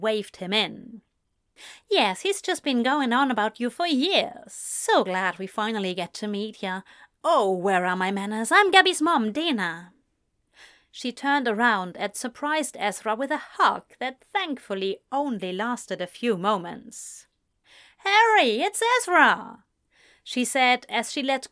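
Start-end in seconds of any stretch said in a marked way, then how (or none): 1.9-9.9 lightly voiced American woman, quick; a hint of chatty American mom; brisk, friendly American visitor; chatty American mother. 18.0-19.6 high, loud call to another room; raised, excited announcement. Acted. Calling husband from doorway.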